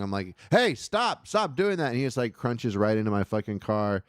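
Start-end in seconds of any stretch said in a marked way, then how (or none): 0.5-1.9 high-pitched, urgent yell; yelled warning, pitched well up; retold yelling. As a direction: imitate yourself yelling a warning at a driver. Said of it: "I'm, like, yelling".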